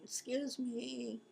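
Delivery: slight wheeze on the breath; wheezy, catching breath; wheezing. Real, not acted. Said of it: "I'm wheezing a little".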